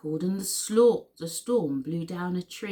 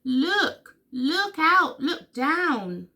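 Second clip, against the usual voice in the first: high, loud warning calls; yelling; 6 semitones higher, 5 dB louder, much slower than usual. A narrator's reading. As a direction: yell it in separate urgent bursts. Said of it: "who yelled".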